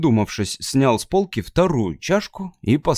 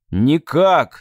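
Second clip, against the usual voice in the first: louder snapped correction; correcting yell; 3 semitones higher, 5 dB louder than usual. Acted. Matt yelling a grammar correction at Abby. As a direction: bark the right word. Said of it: "заорал на неё Мэтт".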